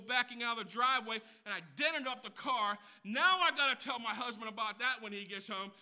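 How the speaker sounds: a stressed mom venting about her day; frazzled parent rant. Pretend. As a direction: pile up the chores in a harried voice.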